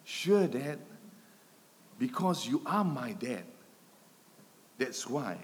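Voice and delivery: understated, matter-of-fact calm; imitated calm reply. Son answering his startled dad, mildly acted calm. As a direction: answer evenly, voicing an untroubled child. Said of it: "responded with remarkable calmness".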